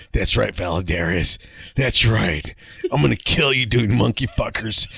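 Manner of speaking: a hint of a drill instructor growling behind him; drill instructor taunt. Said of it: "all I can hear him is like".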